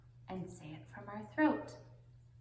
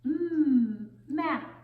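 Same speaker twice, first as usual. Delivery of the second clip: excited reveal; 7 semitones higher, 11 dB louder than usual. Acted. Answering own question excitedly.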